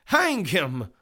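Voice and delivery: loud, high call for execution; demanding cry. Acted. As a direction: demand it like a hot-headed juror. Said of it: "Mister Heady demanded".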